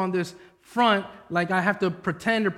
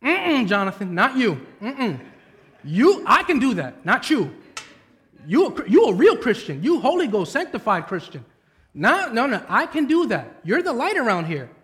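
Natasha's sassy rebuke; 3 semitones higher, 3 dB louder than usual. Retold or imitated. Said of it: "She's like".

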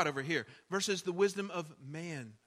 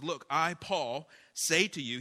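fired-up apostle; 4 dB louder than usual. Retold or imitated. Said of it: "he's real fired up".

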